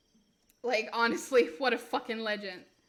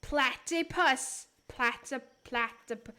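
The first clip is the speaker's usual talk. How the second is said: put-on Australian accent. Streamer fumbling platypus in mock Australian accent. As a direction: try an Aussie twang, breaking the word up. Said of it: "I love Australians' accents".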